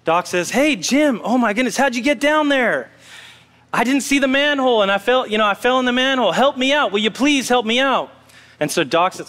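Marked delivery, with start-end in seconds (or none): 0.5-2.9 higher-pitched acted surprise, calling down; mildly surprised. Doctor spots Jim down the manhole, lightly acted surprise. 3.7-8.1 higher, lightly acted plea; pleading for help. Jim explains his fall to the doctor, mock pleading.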